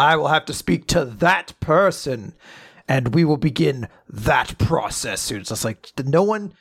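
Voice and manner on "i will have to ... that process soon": mock vague formal. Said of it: "So they're like".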